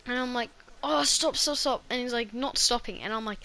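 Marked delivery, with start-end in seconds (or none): 0.8-1.8 higher, louder cry of pain; pained pleading. Retold or imitated. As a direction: beg him to stop through the pain. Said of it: "under so much pain".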